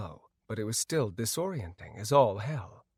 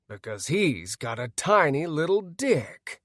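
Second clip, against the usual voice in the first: a light yell in the orc Bagram's voice; mock Bagram voice; 4 semitones higher than usual. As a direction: mimic the orc chieftain, half-hearted yell. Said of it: "Nanaya yelled in Bagram's voice".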